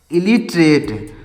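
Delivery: "इलिटरेट" repeated slowly, syllables stretched with a falling close; prononciation modèle. Shown as a demonstration. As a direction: teach how "इलिटरेट" is read, slowly. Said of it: "इसको क्या पढ़ेंगे?".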